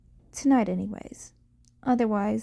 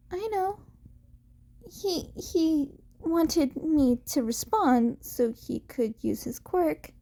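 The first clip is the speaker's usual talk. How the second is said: put-on a touch higher, a young boy's voice; lightly voiced boy; 5 semitones higher than usual. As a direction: answer guiltily in a lighter young voice. Izuku voiced answering Aizawa.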